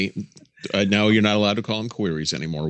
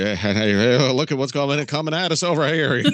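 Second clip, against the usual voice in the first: higher, excited fairgoer impression; imitated father-in-law; 3 semitones higher than usual. Imitating future father-in-law walking down the midway, excited calling. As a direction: call out like father-in-law spotting things on the midway. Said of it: "you sound like my future father-in-law".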